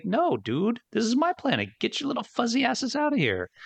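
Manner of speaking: lightly voiced Mumra. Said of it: "And he's like".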